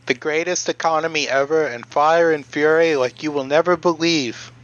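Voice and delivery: rally-style Trump boast; Trump impression.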